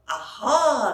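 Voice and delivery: loud triumphant aha. Acted. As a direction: pounce on the find. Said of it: "said the fairy".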